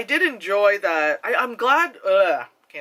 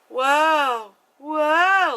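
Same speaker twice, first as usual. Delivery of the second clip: higher, airy mock actress gasp; mock Drew Barrymore; 9 semitones higher, 5 dB louder than usual. Critic mocking an actress's fake kick, higher mock gasp. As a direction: send up a limp stunt with a breathy wow. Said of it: "She just goes".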